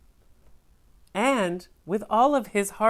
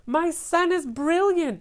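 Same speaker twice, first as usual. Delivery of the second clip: high proud gushing; lightly voiced proud mother; proud boast; 11 semitones higher, 3 dB louder than usual.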